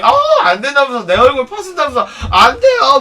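loud, high protest in a put-on voice; mocked fuss. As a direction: imitate someone making a big fuss of refusing. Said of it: "막 이지랄 하는 거야". (호들갑스럽게 크고 높게 거부하는 흉내)

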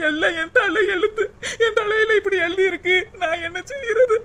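weeping over her fate to mother; crying. Acted. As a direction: cry out her fate through tears. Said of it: "அழுகாதடி".

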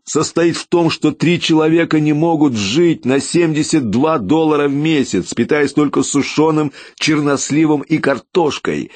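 hoarse-edged anger pouring out; shouting. A narrator's reading. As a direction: shout it down the stairwell. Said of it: "Я уже кричал".

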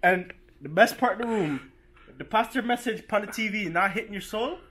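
lightly put-on Caribbean accent. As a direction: tour guide in a mild Caribbean lilt. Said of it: "Can you do it in the accent?".

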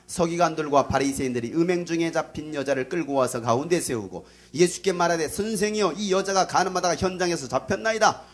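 steady, declaimed Bible recitation; loud scripture reading. Real, not acted. Preacher leading the congregation in reading John aloud, declaimed. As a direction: read out evenly, drawing out the closing question. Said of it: "큰 목소리로 시작".

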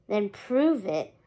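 slow, bland skeleton reply; unimpressed, slow and dry, lightly voiced. Skeleton ferryman challenging Hector, slow and bland. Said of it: "the skeleton said blandly".

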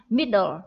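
Middle, MID stressed, dle falling away; stress on first syllable. Shown as a demonstration. Teacher shows the class the stress, MID stressed. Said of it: "Trọng âm ở âm tiết đầu tiên".

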